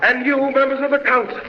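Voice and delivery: indignant defiance. Acted. Scientist answers the council members laughing at him, indignant. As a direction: rebuke those who laugh at you.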